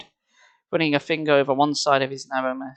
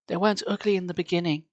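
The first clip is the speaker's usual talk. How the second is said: bitter; 4 semitones higher than usual. Acted. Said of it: "his voice bitter".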